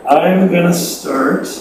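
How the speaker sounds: muffled through a face mask. Real, not acted. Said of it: "Your, your sound is really muffled today".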